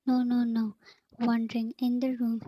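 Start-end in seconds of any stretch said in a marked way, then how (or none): 0.1-0.8 put-on a stubborn child's no, pushed out in a loud whisper; mock yell kept in a forceful whisper. Husband refusing his wife, whispered yell. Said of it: "he yelled like a stubborn child".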